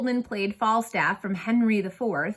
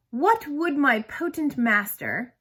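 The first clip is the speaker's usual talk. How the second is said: reciting Shakespeare; 5 semitones higher, slower than usual. Shown as a demonstration. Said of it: "We'll start with".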